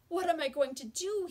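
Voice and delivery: high, loud, anguished cry; miserable panic. Acted. John alone at lunch, panicking, high and loud. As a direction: wail it to yourself in panic. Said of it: "he asked himself miserably".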